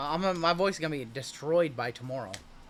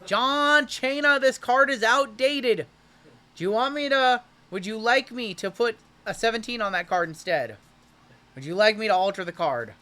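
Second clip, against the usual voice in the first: hyped reveal; 7 semitones higher, 5 dB louder than usual. Real, not acted. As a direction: draw the reveal out for the buyer. Hyped reveal, teasing the buyer.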